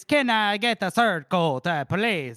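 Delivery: slow Trump-style drawl; Donald Trump impression. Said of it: "in Donald Trump's accent".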